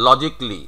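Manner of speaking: "logically" as LOJIK-lee; "logically" ending in "jik-li"; correct "logically". Shown as a demonstration. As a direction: say "logically" in three syllables without "ca". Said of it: "তোমার উচ্চারণটা হচ্ছে".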